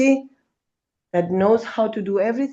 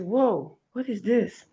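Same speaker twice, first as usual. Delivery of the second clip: mild retold surprise; 4 dB quieter, slower than usual. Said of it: "Then I say".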